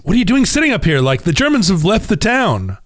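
high, lightly voiced Italian guy asking; a hint of an excited Italian local; Italian guy puzzled at the British officers on the hill. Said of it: "The Italian guy says".

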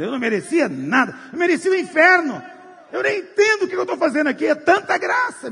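saved sinner astonished before the angels; overwhelmed shout. Acted. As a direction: cry out stunned by grace. Overwhelmed soul arriving in heaven.

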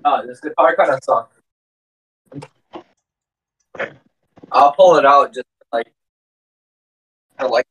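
panting a bit between words; short of breath. Real, not acted. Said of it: "are you out of breath from walking".

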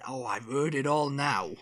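put-on slow stereotypical Welsh accent. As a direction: play a stereotypical Welshman, slowly. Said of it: "He's, like, stereotypical".

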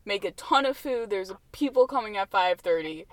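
hammed-up alert to everyone; mock urgent warning. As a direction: warn the whole restaurant, playfully overblown. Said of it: "just warn everyone in the restaurant".

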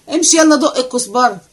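sharp order. Acted. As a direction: bark it at the boy.

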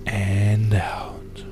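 "and out." breathed out as a whisper. Shown as a demonstration. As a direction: let "and out." go on the exhale. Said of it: "release slowly out your nose".

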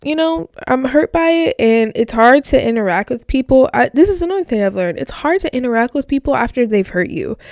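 tearful, voice catching on the words; crying. Real, not acted. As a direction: speak through real tears. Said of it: "I don't know if you can hear my crying".

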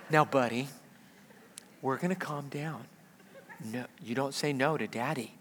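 hushed, low, controlled dad voice; quietly firm. Retold or imitated. Father warns his toddler face to face, low and firm. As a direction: keep it very low but firm. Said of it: "this time a little firmer".

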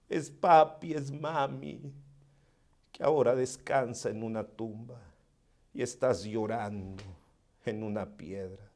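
soft, low, intimate preaching; hushed sermon. Acted. Preacher comforting the grieving listener, softly. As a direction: lean in and speak softly to the hurting.

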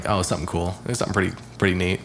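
laid-back, "something" as sump'm; relaxed speech. Shown as a demonstration. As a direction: say "something" lazily without the TH. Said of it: "like, really relaxed, I'll say".

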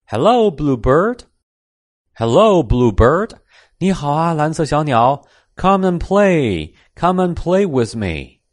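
high, friendly kitten call; little cat greeting. A narrator's reading. Kitten calls to the bluebird.

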